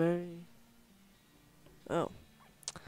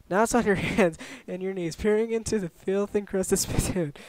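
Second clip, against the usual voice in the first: game narration; 4 semitones higher, 5 dB louder than usual. Acted. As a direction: narrate a disgusting discovery with relish. Reads game narration aloud.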